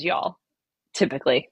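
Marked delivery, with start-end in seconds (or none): 0.0-0.4 "y'all," in a light Southern drawl; Southern "y'all," said lightly; Southern accent. Shown as a demonstration. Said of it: "my only Southern accent is".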